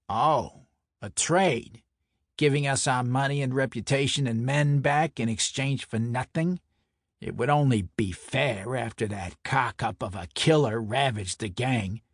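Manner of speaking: lightly voiced sceptical mobster; a touch of incredulous wiseguy; scornful Brooklyn enforcer. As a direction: scoff at the offer in a Brooklyn accent.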